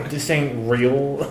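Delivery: slow, haughty elf voice; snooty high elf. Pretend. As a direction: look down your nose at it. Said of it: "I'll do it in a snooty voice as my high elf character".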